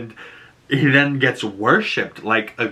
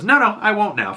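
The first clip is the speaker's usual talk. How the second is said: mock defiance; 9 semitones higher than usual. Vigilante defiantly refusing to leave.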